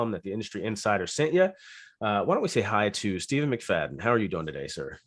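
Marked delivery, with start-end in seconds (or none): 2.0-5.0 hoarse, raspy voice; rough, raspy speaking voice. Real, not acted. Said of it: "with that raspy voice".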